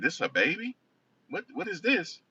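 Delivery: high-pitched, incredulous imitation; mock astonishment. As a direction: voice a baffled mother seeing her newborn. Mother coming to, astonished at baby.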